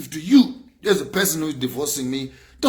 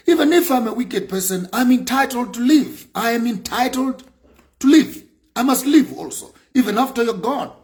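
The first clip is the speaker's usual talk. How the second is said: high and loud, protesting her right to live; indignant cry that she must live too; indignant outcry; 8 semitones higher, 3 dB louder than usual. Real, not acted. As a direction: insist you have a right to live, voice rising. Defiant outburst against ex-spouse.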